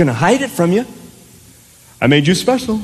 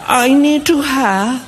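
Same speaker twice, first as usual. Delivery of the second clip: lightly voiced child, drawn out; a hint of a stalling kid; pleading child. Child begs parent for a drink, mock pleading.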